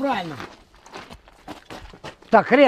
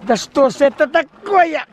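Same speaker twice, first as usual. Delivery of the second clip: frustrated shout; 5 dB louder, slower than usual. Real, not acted. Misfire frustration.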